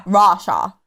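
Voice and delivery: put-on name the country in a Russian accent; quick go at a heavy Russian accent. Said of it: "Do Russia".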